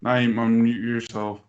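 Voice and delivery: loud slow call across the room. Real, not acted. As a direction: raise your voice to reach him. Calling to a muted friend.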